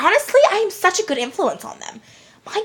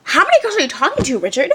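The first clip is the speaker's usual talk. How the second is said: indignant; 2 semitones higher, faster than usual. Retold or imitated. Accusing Richard in retold quote.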